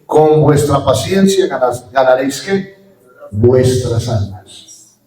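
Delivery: drawn out, word by word; slow emphatic quote. Shown as a demonstration. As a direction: spell the verse out slowly, leaning on each word. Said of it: "Vuelvo y repito". (cita lenta y enfática)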